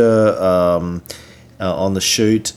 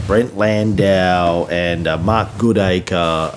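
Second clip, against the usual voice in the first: ordinary talk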